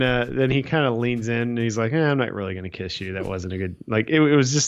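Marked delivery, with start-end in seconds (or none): 1.9-3.8 mock reluctance. Retold reluctant date turning down kiss.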